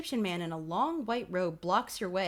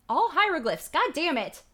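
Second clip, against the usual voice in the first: louder, higher, cursing in exasperation; frustrated outburst; 7 semitones higher, 5 dB louder than usual. Acted. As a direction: blurt it out like you've had it. Reader fumes at unreadable diary.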